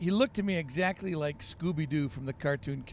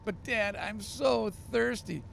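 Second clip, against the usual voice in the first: put-on higher, drawn-out kid whine; whiny little boy; 6 semitones higher, slower than usual. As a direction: stretch the plea like a tired child. Boy pleading again.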